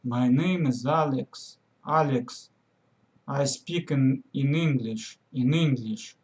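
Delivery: exaggerated thick Russian accent, falling phrase ends. Learner mimics own first attempts at English, thick Russian accent. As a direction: imitate a beginner's heavy Russian accent, repeating words. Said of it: "thick Russian accent".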